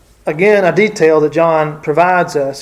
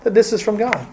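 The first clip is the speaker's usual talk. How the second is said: reassuring; 4 semitones higher than usual. Retold or imitated. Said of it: "she's saying".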